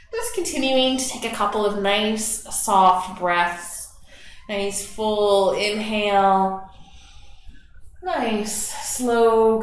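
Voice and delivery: calm guided meditation voice; guided relaxation. Acted. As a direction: ease the class into their breath.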